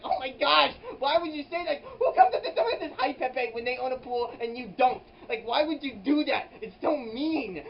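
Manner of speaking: high, loud indignant rant with laughs; laughing mock outrage; outraged squeal. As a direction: splutter in hammed-up disbelief.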